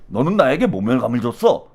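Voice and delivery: low, measured mob-boss line; low-voiced gangster boss quote; movie boss impression. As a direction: drop the pitch like a film crime boss. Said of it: "딱 이렇게".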